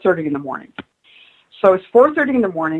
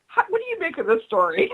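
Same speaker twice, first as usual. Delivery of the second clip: much higher, laughing through the question; 11 semitones higher, 4 dB quieter than usual. Real, not acted. Guest retelling her question to atheists, laughing through it. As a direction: let real laughter cut in.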